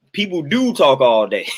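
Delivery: "do" pressed, slow and emphatic; stress on do. Shown as a demonstration. Correcting a viewer's comment, stressing do. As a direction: lean into "do". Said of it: "It ain't that they can".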